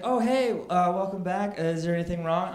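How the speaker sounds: chipper cashier. Retold or imitated. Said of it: "he's like".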